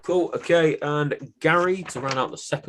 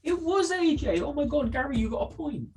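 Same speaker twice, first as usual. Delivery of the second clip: teasing; 4 dB quieter than usual. Real, not acted. Teasing friend over a point.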